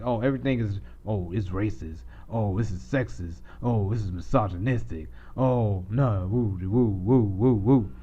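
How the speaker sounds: a mild mock of outraged complainers; mock offended whine. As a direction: sneer at them in a lightly whiny mock voice. Mocking offended people online.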